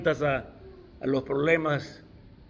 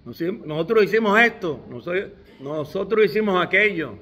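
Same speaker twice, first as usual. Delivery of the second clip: raised, louder pleading plea; pleading disciples; 4 semitones higher, 3 dB louder than usual. Retold or imitated. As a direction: beg the Lord, insisting on what they did. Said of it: "él dice".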